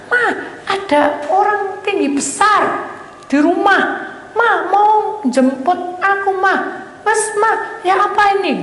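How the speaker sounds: high, slow, drawn-out calling to mother; acted alarmed cry. Patient telling mother a huge figure has come, acted alarm. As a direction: re-enact a frightened plea for Mama.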